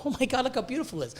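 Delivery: soft and fast, like marvelling at a new pet; hushed adoring gush. Retold or imitated. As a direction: breathe it out in quick, quiet awe. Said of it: "look at it and go".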